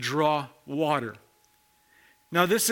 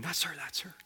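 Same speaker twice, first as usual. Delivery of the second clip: hushed aside, much softer; imitated gossip; 2 semitones lower, 12 dB quieter, faster than usual. Townswomen pointing out the outcast woman, hushed mock gossip.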